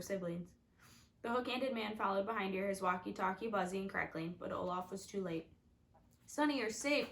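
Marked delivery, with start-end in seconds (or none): 6.3-7.1 higher, relieved exclaim; relieved cry. A narrator's reading. Klaus crying out in relief at his sister. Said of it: "Klaus cried".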